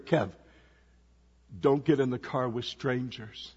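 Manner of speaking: soft, hushed warning into his ear; retold whisper. Brother softly warning Kev not to get in the car. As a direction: lean in and hush it urgently. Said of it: "whispered in my ear".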